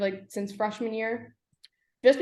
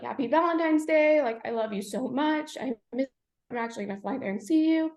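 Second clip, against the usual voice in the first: higher, tearful retelling of loving words; holding back tears; 5 semitones higher than usual. Retold or imitated. Recalling dad's Valentine's Day call, holding back tears. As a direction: quote a loving parent while fighting real tears. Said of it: "I'm gonna start crying".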